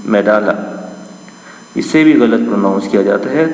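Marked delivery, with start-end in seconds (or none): 0.1-0.7 मेडाला said as me-da-la, open middle a; the correct मेडाला; correct pronunciation. Shown as a demonstration. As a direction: model मेडाला as the right form. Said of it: "ये बल्कि".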